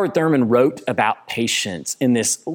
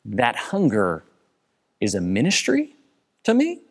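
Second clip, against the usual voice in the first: incredulous. Real, not acted. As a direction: question it in disbelief. Incredulous question.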